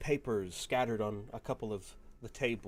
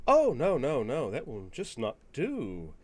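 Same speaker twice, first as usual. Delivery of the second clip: eager father. Acted. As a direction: brush the idea aside, eager. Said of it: "and goes".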